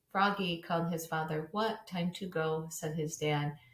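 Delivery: flat, expressionless story reading; monotone robotic read-aloud. Shown as a demonstration. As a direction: read it evenly like a robot, no character in the voices. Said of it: "read it kind of like a robot first".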